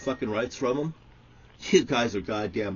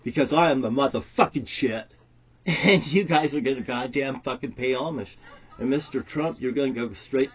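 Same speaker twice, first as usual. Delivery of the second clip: ranting shout; 3 semitones higher, 6 dB louder than usual. Real, not acted. Escalating religious rant.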